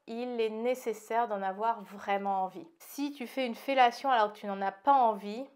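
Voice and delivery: slight lisp from new aligners. Real, not acted. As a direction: lisp on the s sounds. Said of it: "Désolée si je zozote un peu".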